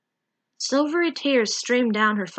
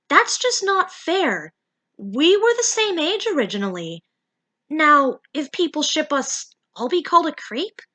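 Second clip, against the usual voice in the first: Mimi's voice a little higher, worried; concerned Mimi; 5 semitones higher than usual. Acted. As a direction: protest with mild worry. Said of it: "Mimi asked, looking concerned".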